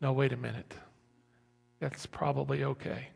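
soft, measured reassurance; voice of reason. Acted. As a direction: talk the alarm down quietly. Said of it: "it filters it, and it goes".

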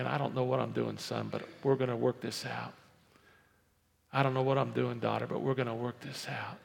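mild reassurance after the outburst; humble parent. Acted. Parent admitting uncertainty to son and daughter, calm and steady. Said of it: "Instead of saying".

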